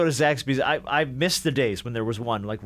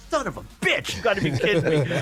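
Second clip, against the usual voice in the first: retold frustration; 5 semitones higher than usual. I was so mad.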